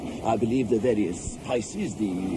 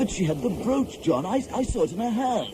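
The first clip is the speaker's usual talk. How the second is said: high-pitched, urgent protest; worked-up, stammering insistence; agitated insistence; 8 semitones higher than usual. Acted. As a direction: plead to be believed, pitch climbing. Protesting with evidence to sceptical friend.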